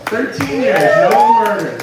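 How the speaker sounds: cartoonish high squeal; squealed punchline. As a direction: squeal it out, hammed up for the laugh. Repeating the punchline, far higher and louder.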